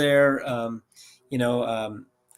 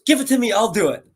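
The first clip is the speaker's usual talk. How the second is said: retold eager offer; 7 semitones higher, 6 dB louder than usual. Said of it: "he goes".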